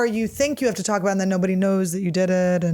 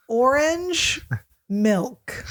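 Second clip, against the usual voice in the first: laughing; 4 semitones higher, much slower than usual. Real, not acted. Laughing at own puke story.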